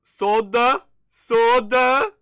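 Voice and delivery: can't believe it, shout it; building disbelief. Real, not acted. Incredulous repeat building up.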